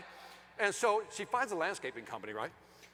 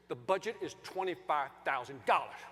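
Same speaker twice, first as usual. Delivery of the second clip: lower, deliberate statement of terms; firm; 4 semitones lower than usual. Retold or imitated. Husband telling the landscaper the budget, firm and measured. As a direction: spell out the limit firmly. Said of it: "just like that".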